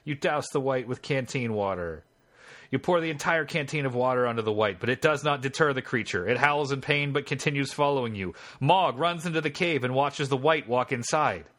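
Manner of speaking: measured game-master narration; story narration. A narrator's reading. Game master reading the scene to the player, story narration. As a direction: read the adventure text out as story.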